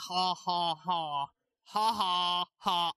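a low, deliberate ha ha ha, hammed up to sound creepy; deep creepy fake laugh. Shown as a demonstration. Vlogger demonstrates a forced laugh, mock creepy and deep. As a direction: laugh on purpose, slow and spooky. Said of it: "very deep and very creepy and very scary".

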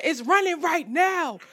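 high, drawn-out mimicked announcement; imitated street guy. Man breaking car news to her, high and drawn out.

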